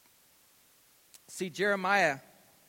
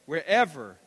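call to repeat; 7 dB louder than usual. Shown as a demonstration. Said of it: "Say it with me".

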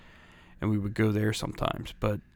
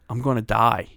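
put-on panicked kid; 6 dB louder than usual. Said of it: "And I'm saying it".

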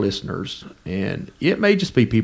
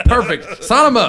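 laughing; 11 semitones higher, 4 dB louder than usual. Real, not acted. Laughing reply to joke.

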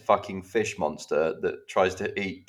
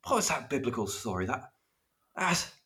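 higher, puzzled voice groping for a title; confused Netflix viewer; 10 semitones higher than usual. Retold or imitated. Podcast host mocks a confused viewer searching Netflix, high puzzled voice. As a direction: play someone who can't recall the name. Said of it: "can you imagine someone going into Netflix and going".

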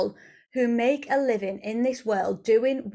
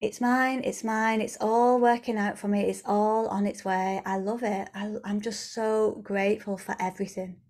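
heartfelt gratitude. Acted. Woman with hand on heart trusting money is coming, heartfelt gratitude. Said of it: "got that hand on the heart".

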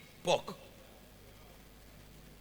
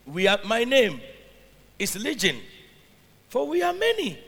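loud demon voice; 4 semitones higher, 8 dB louder than usual. A narrator's reading. Demon voice read from scripture.

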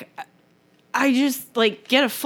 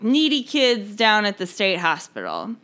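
smug boss voice; 4 semitones higher than usual. Retold or imitated. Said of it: "And the guy is like".

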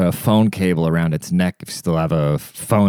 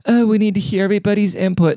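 mock manager; 11 semitones higher than usual.

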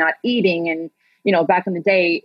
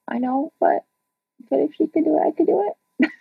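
small high-pitched voice climbing higher; hopeful protest; 8 semitones higher than usual. Retold or imitated. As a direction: plead your case in a tiny, rising voice. Acts own hopeful plea to scout.

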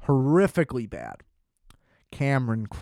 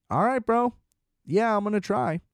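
high, eager bro voice; a hint of a cocky bro; mock Tom Cruise; 7 semitones higher than usual. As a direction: play the eager guy going along. Imitating Tom Cruise's reply.

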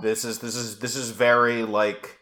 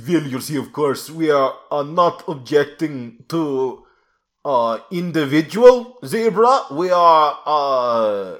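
Golden One voice; 3 semitones higher than usual. Retold or imitated. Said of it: "doing a variant quote from the Golden One".

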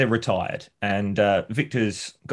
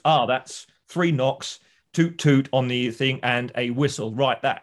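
slow decoding; 2 semitones higher, slower than usual. Retold or imitated. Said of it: "he goes".

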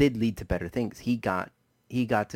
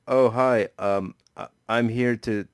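mock stilted porn-actor line, a bit louder; bad movie acting; 5 dB louder than usual. Mocking the porn film's bad acting, hammed-up stiff delivery. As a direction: ham it up like a wooden actor. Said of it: "the bad movie acting that was going on".

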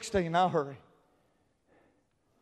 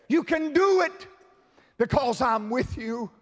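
encouraging cheer; 2 semitones higher than usual. Retold or imitated. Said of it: "he cheers me on".

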